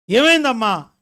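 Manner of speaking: high, loud acted demand; alarmed questioning. Pastor asking the crying caller what happened, loud alarmed questioning. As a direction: call out the question in mock alarm.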